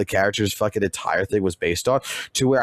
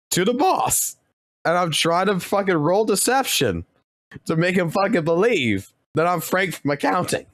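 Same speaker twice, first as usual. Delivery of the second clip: cracking up; 8 semitones higher than usual. Real, not acted. Cracking up retelling his bluff.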